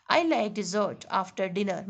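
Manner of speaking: slow, careful example read; deliberate teaching pace; slow example sentence. Shown as a demonstration. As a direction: read the sentence slowly for students. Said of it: "जो वो sweet है".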